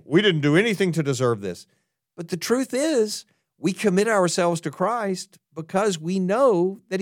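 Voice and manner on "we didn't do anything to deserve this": mock complaint. Shown as a demonstration. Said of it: "we should never say".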